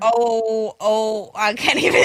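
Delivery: very slow, halting, stuttering stammer. Trying to read something off a bunch of old documents: stuttering. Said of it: "I'm trying to say it and I'm stuttering".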